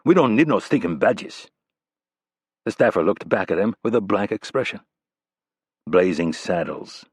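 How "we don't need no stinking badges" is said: "We don't need no stinking badges" in a hammed-up Mexican accent. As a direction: quote the movie line in a mock Mexican accent. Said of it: "Rapp said with a Mexican accent".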